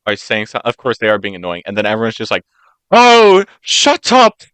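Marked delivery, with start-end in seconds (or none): 2.9-4.4 loud, high mock yell; screaming at people. Fed-up passengers to noisy people on a train, screaming. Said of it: "just, like, screaming at them".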